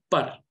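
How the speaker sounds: par with the R rolled and held long; stretched rolled R. Shown as a demonstration. Teacher showing a syllable read with its R rolled out. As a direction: give the R in par time to stretch and roll. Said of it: "more time to stretch and go into the sound".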